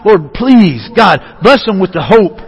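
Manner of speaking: earnest, measured plea to God; lightly acted begging, lingering on each "please"; pleading prayer. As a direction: plead gently on someone's behalf. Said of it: "I see someone almost begging, pleading".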